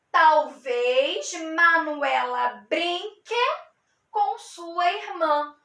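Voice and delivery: slow, clear model reading; slow model sentence. Shown as a demonstration. Teacher reading a model sentence slowly to students. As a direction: read it slowly for the class. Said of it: "como a gente pode transformar essa frase".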